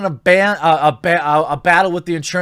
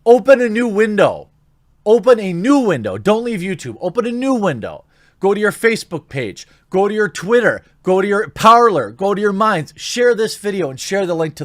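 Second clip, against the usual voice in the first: insistent; 4 semitones higher than usual. Real, not acted. Urging viewers to share.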